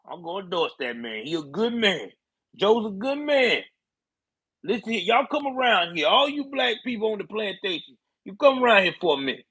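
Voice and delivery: a hint of an old southern congressman rallying a crowd; mock Jim Clyburn waving voters in. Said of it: "That's how Clyburn talk".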